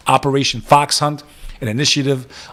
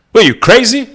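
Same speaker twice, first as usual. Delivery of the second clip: incredulous yell; 9 semitones higher, 6 dB louder than usual. Acted. Peak of mock outrage.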